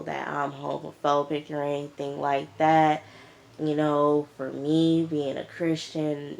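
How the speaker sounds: a low, sleepy, unbothered voice; tired Pam. Retold or imitated. Pam defending herself to Keely, low and tired. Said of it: "like she tired".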